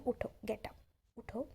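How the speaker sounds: a soft, coaxing nudge to stand, not an order; gentle friendly suggestion. Retold or imitated. Kind teacher gently urging shy Bholi to stand, soft coaxing. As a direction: invite her up kindly, no command in it. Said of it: "commanding वे में बिल्कुल भी नहीं था".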